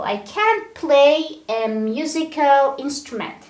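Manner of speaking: "can't" stands out strongly before the verb; stress on CAN'T. Shown as a demonstration. English teacher modelling a negative sentence, stress on "can't". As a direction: put the weight on "can't". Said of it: "the stress goes to the modal verb".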